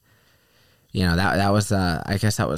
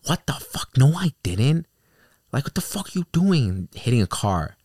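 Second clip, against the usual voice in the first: imitating the angry driver; 8 semitones higher than usual. The driver denying he ran over the shoe, mock angry. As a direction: play the driver denying it hotly. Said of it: "And he's like".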